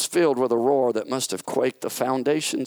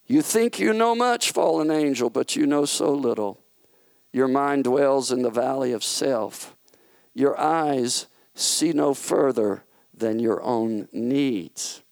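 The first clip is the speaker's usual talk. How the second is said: lightly voiced firm king, a bit raised; a hint of a stern ruler putting him in place; God the King; 3 semitones higher than usual. God telling Satan his plans have failed, lightly voiced.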